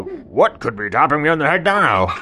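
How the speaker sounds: loud, laughing tiger question. Acted. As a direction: ask it through a laugh. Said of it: "And the tiger saw".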